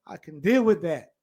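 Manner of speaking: quick, unvoiced whisper; tossed-off whispered aside. Preacher mocking a sinner's excuse, in a quick whisper.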